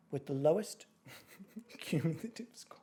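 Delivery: trying to announce, breaking into laughter; cracking up. Real, not acted. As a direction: let a laugh spoil the solemn announcement. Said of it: "you look funny when you do that".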